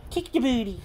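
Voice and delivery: a gentle tease to the dog; playful pet talk. Real, not acted. Teasing the dog.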